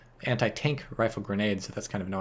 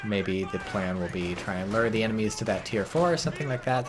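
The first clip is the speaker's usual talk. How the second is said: ordinary talk, nothing marked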